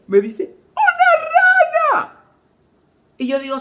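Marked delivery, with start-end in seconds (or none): 0.7-2.2 very high, loud mock scream; hammed-up, drawn-out panicked screech; imitated shriek. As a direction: squeal it out slowly in exaggerated terror. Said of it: "que comenzó a chillar".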